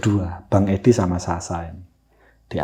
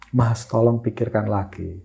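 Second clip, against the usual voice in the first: imitating tearful plea; 4 dB quieter than usual. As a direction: plead as if crying, understated. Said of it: "Sambil nangis". (menirukan permohonan sambil menangis)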